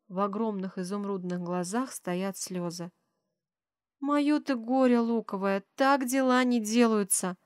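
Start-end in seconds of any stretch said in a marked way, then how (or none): none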